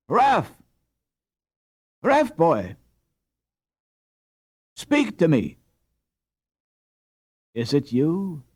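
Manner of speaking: a wife calling her husband back to her; crying out. A narrator's reading. Wife crying out to her waking husband.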